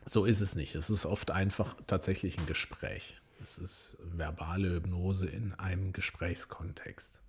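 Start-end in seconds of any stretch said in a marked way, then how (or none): 3.4-7.2 talking after swallowing wrong; throat caught from a sip; choking on a drink. Real, not acted. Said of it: "ich hab mich verschluckt".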